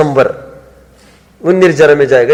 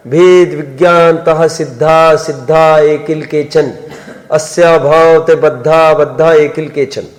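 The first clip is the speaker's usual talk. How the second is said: slow, measured Sanskrit verse recital; verse recitation; slower than usual. Acted. Teacher quoting scripture to his class, slow verse recitation. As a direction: recite the verse with drawn-out syllables.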